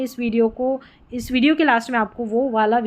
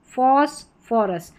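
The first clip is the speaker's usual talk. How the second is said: फॉस्फोरस drawn out slowly, each syllable clear; slow repeat; slower than usual. Shown as a demonstration. Teacher repeating the word slowly for students to copy. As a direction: stretch फॉस्फोरस out so learners catch the फ. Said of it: "पीएच के बाद आर नहीं है तो फ".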